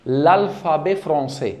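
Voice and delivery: "l'alphabet français" very slow, syllable by syllable; French pronunciation. Shown as a demonstration. Teacher introduces the word on screen, slow French pronunciation. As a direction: draw out each syllable in careful French. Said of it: "بتتنطق كده".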